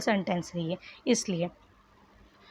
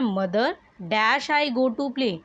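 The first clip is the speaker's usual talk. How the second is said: slow dictation reading; much slower than usual. Shown as a demonstration. Teacher rereads sentence with blank.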